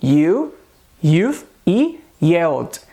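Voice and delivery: slow "You", "youth", "yelled" with clear Y onset; consonant Y. Shown as a demonstration. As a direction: model "You", "youth", "yelled" one at a time. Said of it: "a gente tem um som do Y".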